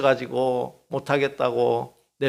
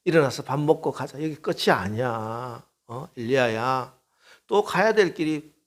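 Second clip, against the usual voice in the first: tender coaxing. Retold or imitated. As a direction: coax Elijah to get up tenderly. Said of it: "천사를 보내서 만져주시고". (엘리야를 다정하게 달래며)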